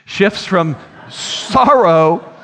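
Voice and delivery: slow, drawn-out sorrow; stress on sorrow. Shown as a demonstration. Preacher stressing the shift from sorrow. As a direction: stretch the word sorrow. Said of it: "The tone of the song shifts".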